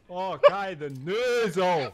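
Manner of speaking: very slow, stretched fake Scottish on noozle; exaggerated mock Scottish. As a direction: drag out noozle in a thick put-on brogue. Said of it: "my accent is so loud".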